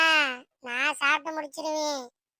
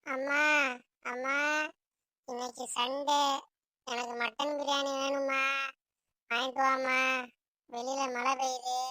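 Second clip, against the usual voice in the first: put-on pleading child. Child begs mother for mutton biryani, pleading. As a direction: coax mother in an even, singsong plea.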